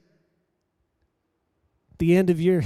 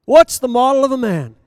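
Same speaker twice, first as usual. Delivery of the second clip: challenging question; 6 semitones higher, 9 dB louder than usual. Acted. Preacher challenges the men.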